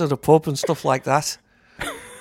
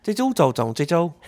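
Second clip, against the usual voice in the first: Scouse accent imitation; 3 semitones higher than usual. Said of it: "the Scouse accent, which is kinda like that".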